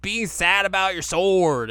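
put-on high, loud child's voice; high kid voice. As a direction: squeak it like a little kid. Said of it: "Shippo's like".

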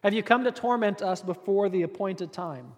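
half-laughing, protesting "you are early"; a lightly voiced demon caught off guard; mock indignant demon. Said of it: "These demons are like".

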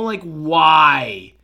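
loud, frustrated why; exasperated shout. Real, not acted. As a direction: throw up hands and shout it. Exasperated at athletes partying.

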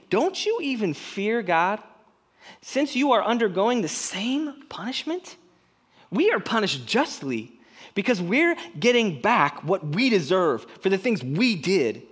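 the other criminal rebuking him. Acted. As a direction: scold him with urgent conviction.

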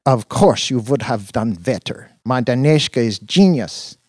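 put-on high, bright foreign girlfriend. A narrator's reading. Dina voiced by narrator.

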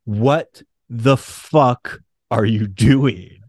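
low, slow and stern, words pulled apart; angry Storm. Retold or imitated. Storm confronting Peter over his betrayal, slow stern demand. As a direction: Storm demanding answers, drawn-out.

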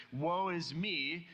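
lament. Retold or imitated. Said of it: "and says".

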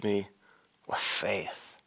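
breathy whisper of Jesus' words; Jesus whispering with faith. Acted. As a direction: hush it to nothing. Jesus quoted, voice drops away.

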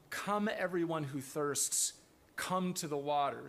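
both come words stressed. Shown as a demonstration. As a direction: lean into each come. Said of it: "Come is the first word".

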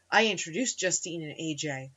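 low, soft mock voice-over, lightly hushed; echoey whisper voice. Host mimics the hero blaming himself, echoey whisper voice. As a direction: hush it like a movie hero's inner thought. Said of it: "in that echoey whisper voice".

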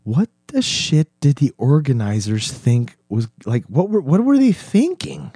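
disbelieving rant, voice shooting up; incredulous. Retold or imitated. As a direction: ask it like you can't believe it. Incredulous about the festival crowd.

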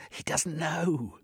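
high, slow teasing; light giggly mockery; giggling cat woman. A narrator's reading. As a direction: tease in a high, drawn-out voice. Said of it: "she giggled".

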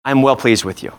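a hint of a tender heavenly father; voicing God the Father. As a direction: speak as the Father over his child. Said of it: "go to the Father's voice and says".

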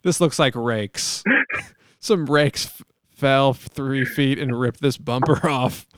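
slow, loud, hammed-up fake innocence; mock innocent liar. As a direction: ham up the lie to sell it. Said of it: "You're like".

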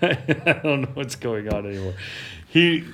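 ordinary delivery

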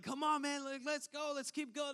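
high-pitched mock hollering, no real volume; imitating a boy hollering at his pals; retold yelling. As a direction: egg your friends on in a high mock yell. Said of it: "I'm yelling at these two guys".

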